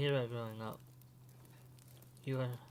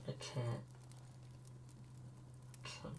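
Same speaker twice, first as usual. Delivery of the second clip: 1 fading, defeated; 10 dB quieter than usual. Acted. Stopping himself from telling.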